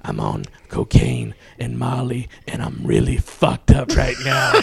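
lightly voiced druggy confession, on the low side; imitating wasted Mike. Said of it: "you can tell Mike is on fu-, is fucked up".

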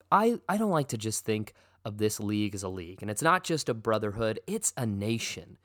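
grand propaganda address, slowed; mock dictator speech. Host addresses league citizens, mock dictator speech. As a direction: proclaim it like a dictator rallying the nation.

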